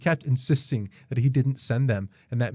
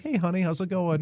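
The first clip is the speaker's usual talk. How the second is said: mock sweet husband; 5 semitones higher than usual. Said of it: "be like".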